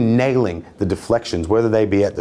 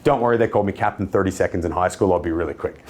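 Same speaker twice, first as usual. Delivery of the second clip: cheeky; 3 semitones lower, faster than usual. Shown as a demonstration. Salesman joking with a busy customer, cheeky and quick. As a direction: toss it off as a playful quip. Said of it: "if I'm a little bit cheeky and I can be fun".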